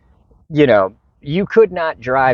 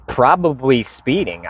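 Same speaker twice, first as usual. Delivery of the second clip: slower, disbelieving repeat of the phrase; incredulous echo; 4 semitones higher, slower than usual. Retold or imitated. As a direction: throw "Probably speeding" back in disbelief, drawn out. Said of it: "I'm like".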